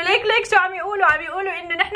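mock laughing. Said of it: "بتضحك وبتقول له".

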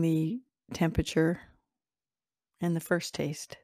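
calm, even meditation voice with long pauses; guided visualization. Acted. Host leading listeners through an imagined morning drink, calm guided meditation. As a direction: guide them unhurriedly, leaving space after each phrase.

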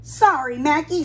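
lightly snappish refusal; snapped. Acted. Miss Billy mildly snapping at Mackie. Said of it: "snapped Miss Billy".

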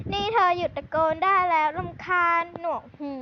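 annoyed scolding. Acted. Boy in library tells noisy girl off, irritated. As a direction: snap at her to stop yelling.

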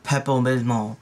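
slurred, mangled Pepto Bismol; tripping over the name. Real, not acted. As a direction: stumble through "Pepto Bismol" with the middle consonants lost. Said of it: "I legit can't say".

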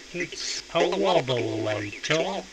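warbling vibrato effect; wobbling voice. Shown as a demonstration. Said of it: "It makes your voice wobble".

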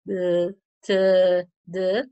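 "d", "t", "d" as consonant sounds with a short vowel, not letter names; teacher demonstrating each consonant separately; isolated consonant sounds. Shown as a demonstration. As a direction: sound out "d", "t", "d" one by one. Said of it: "como son consonantes sonoras".

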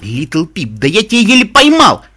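he barely caught her; shocked anger. A narrator's reading. Calamity shocked and angry.

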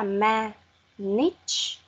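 "ma" with an open E vowel, then "niche" apart; syllable by syllable. Shown as a demonstration. Teacher rebuilding management for Xuân, separate "ma" and "niche". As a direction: break it in two: "ma" as meh, pause, "niche". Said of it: "đọc lại là âm E".

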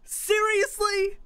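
high and slowly stretched out in disbelief; slow, high, stunned repeat; drawn-out disbelief. Real, not acted. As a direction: let the word hang in stunned disbelief. Killed again by the serpent.

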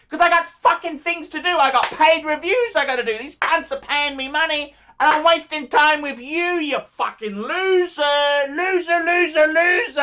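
high-pitched angry rant building to shouts; real anger. Real, not acted. Vlogger explains why he's angry at timewasters, real anger. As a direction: rail at them, stretching out the name-calling. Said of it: "They wonder why I'm angry".

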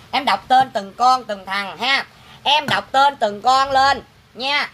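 slow, measured pretend-ritual announcement; mock ceremony. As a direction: draw out each phrase like a mock offering rite. Mock rite announcing names of no-shows.

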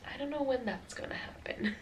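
hushed whisper aside. Real, not acted. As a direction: drop to a whisper. Whispered aside about timing.

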